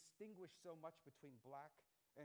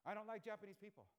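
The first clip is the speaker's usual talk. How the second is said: stubborn dad; 7 semitones higher, 8 dB louder than usual. Retold or imitated. Dad answers son in retold argument.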